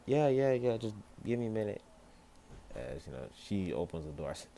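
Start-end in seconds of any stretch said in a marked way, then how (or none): 0.1-1.8 loud, high, hurried yeah yeah; flustered shout. Acted. Caught half-dressed, he shouts to Weiss, flustered. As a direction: brush her off in a panic.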